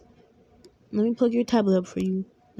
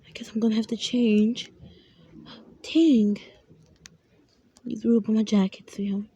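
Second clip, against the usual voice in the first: put-on mum whispering at night to her sick child; whispering mom. Mother soothing sick child at night.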